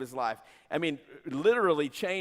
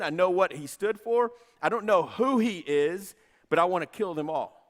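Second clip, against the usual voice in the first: zealous persecutor. Acted. Saul voiced declaring persecution.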